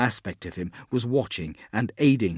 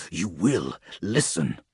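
stern command; 4 semitones lower, slower than usual. Acted. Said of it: "trying to pierce the fog of agony".

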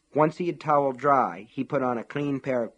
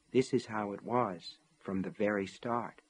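whispered inner voice; 2 semitones lower, 7 dB quieter than usual. A narrator's reading. Quiet voice of sanity to a raging man, whispering. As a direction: breathe it like sanity fading. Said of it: "the voice whispered".

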